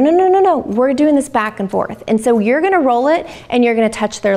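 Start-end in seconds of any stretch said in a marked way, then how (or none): 0.0-2.0 put-on stopping the child with a firm no; mock parent insisting. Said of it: "you're gonna be like".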